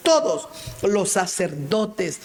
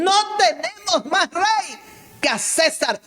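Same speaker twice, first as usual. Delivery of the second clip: crowd shouting; 12 semitones higher, 4 dB louder than usual. Retold or imitated. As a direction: cry it out as the mob. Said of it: "Y ellos respondieron". (la multitud grita a Pilato, alto y lento)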